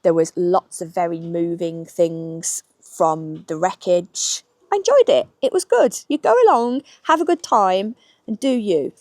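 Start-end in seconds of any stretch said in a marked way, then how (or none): 4.7-8.9 much higher and louder, gushing; bright enthusiasm. Real, not acted. Vlogger urging Titanic fans to go, excited gush. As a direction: sell it with a burst of joy.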